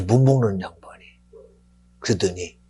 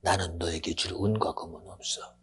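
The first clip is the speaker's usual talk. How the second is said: low, hushed solemn address; Peter; 5 semitones lower, 4 dB quieter than usual. Acted. Peter speaking to the lame man at the gate, quietly solemn. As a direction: begin softly and gravely, held back. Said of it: "베드로가 말합니다".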